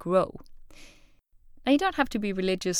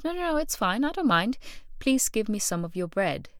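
higher pitched, eager pleading; starving person insisting they don't mind, higher; 3 semitones higher than usual. Retold or imitated. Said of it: "The starving person goes".

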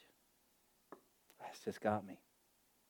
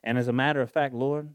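fervent prayer; 5 semitones higher, 10 dB louder than usual. Acted. Prayer bursts loud again.

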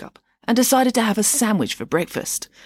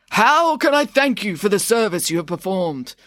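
put-on old emperor; 2 semitones higher than usual. Mum voicing the emperor.

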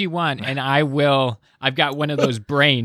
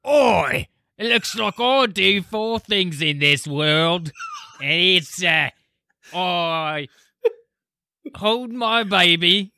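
hammed-up British accent, a bit higher; mock a rock singer in a broad British accent; bad British accent bit; British accent impression; 3 semitones higher than usual. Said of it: "do your impression in a British accent".

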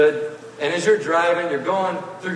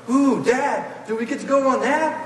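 put-on much higher, eager childish pleading; excited kid; 9 semitones higher than usual. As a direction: beg dad with wide-eyed excitement. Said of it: "you start pointing to things and go".

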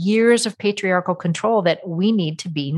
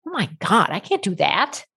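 incredulous; 3 semitones higher than usual. Retold or imitated. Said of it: "they look at me incredulously".

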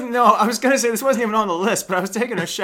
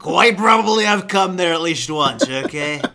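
Trump impression. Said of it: "My Trump impression gets worse".

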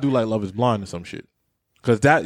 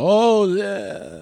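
higher, hammed-up fake "Oh yeah"; faked reaction; 7 semitones higher than usual. Mocking reality show cast faking excitement, higher. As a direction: play the fake-excited contestant. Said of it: "They be faking the reaction".

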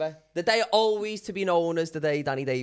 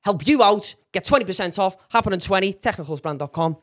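punchy, raised-voice closing plug; sponsor read; 4 semitones higher, 7 dB louder than usual. Acted. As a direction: sell the discount in short, emphatic bursts. Closes the sponsor spot.

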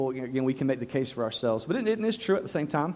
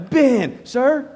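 put-on a higher, nervous reply from a child; timid answer; 9 semitones higher, 7 dB louder than usual. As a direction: answer dad meekly, pitched up. Kid answers strict dad.

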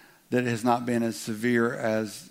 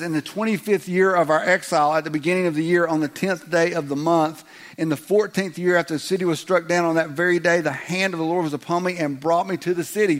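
higher, louder, rattled-off recital; droning scripture reading; 4 semitones higher, 4 dB louder than usual. Pretend. Pastor reading Ezekiel to the congregation, mock droning recital. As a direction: read it like a rote chore. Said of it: "Did you get that?".

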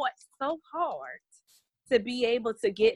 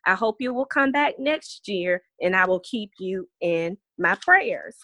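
put-on reading a child's letter. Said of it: "It says".

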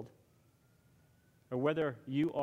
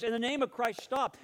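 raised-pitch command, moderate volume; contained mock shout, pitched up; retold shout; 6 semitones higher than usual. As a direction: imitate a monk calling a halt. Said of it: "and shouting".

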